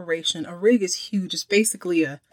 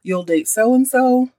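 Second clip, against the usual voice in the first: high, slow, teasing "oh really"; intrigued mock question; 5 semitones higher than usual. Father Blake slyly tests his son, high and slow. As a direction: dangle the offer like a sly father. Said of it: "He's like".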